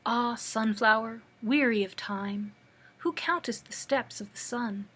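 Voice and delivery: measured verse with pauses between lines; poem reading. Acted. Reads a poem aloud.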